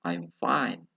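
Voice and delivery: "I'm fine" level, easing down; slightly flat intonation. Shown as a demonstration. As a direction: model "I'm fine" with an understated tune. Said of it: "itu sedikit datar".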